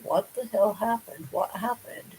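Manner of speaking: understated imitation of someone spazzing out; retold spazzing out. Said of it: "I started spazzing out on her".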